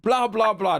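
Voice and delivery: high loud blah blah rant; mock yelling. A downed player rants on at the robbers, loud and high. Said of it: "was yelling".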